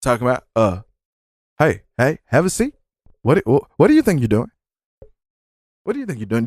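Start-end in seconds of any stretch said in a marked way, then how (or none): 1.6-2.7 Chris Hansen impression. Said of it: "Chris Hansen fucking coming in". 3.2-4.5 quick, pressing mock TV host; imitating Chris Hansen. Host confronting a caught predator, quick mock grilling. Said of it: "Chris Hansen fucking coming in". 5.8-6.4 imitating Chris Hansen. Host repeats question to caught man, quieter and knowing. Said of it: "Chris Hansen fucking coming in".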